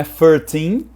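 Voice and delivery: thirteen begun with F, as firteen; wrong F sound. Shown as a demonstration. Teacher warning learners off thirteen said with an F. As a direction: swap the TH of thirteen for F, rising. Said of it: "não é thirteen".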